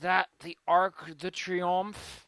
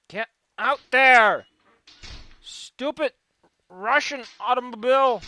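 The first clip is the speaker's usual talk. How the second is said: shouting; 5 semitones higher, 8 dB louder than usual. Real, not acted. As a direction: yell it out at the car. Yelling at stuck car.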